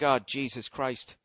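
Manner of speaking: low, soft, slow weary groan; mock groan. Comic pretending his schooner sail broke, weary groan. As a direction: sigh it out, deflated. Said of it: "and I'm just like".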